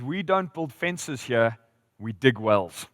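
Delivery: slow imitated Australian rancher; lightly put-on Aussie accent, drawn out. Rancher explaining wells to the visitor, Aussie accent. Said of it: "in his Aussie accent".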